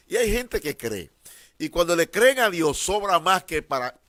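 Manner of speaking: loud, rising preacher's cry; sermon shout building up; fervent preaching. Real, not acted. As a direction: lift the room with it. Preaching at full force.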